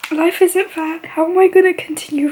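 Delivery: real crying. Real, not acted. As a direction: speak through the tears. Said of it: "I can't stop crying".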